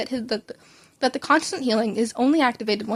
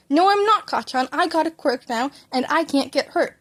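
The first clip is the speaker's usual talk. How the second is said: put-on defiant child; 4 semitones higher than usual. Child defiantly arguing back.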